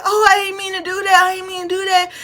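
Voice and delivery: high, lightly voiced kid mumbling sorry; mock apology. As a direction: play the boy pretending it was an accident. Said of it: "He's like".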